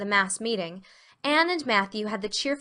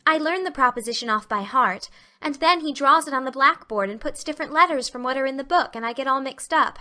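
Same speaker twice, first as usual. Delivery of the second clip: put-on higher, aggrieved girl; Anne, complaining; 4 semitones higher, 4 dB louder than usual. Anne explaining her geometry troubles, higher complaining voice. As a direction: pour out the grievance.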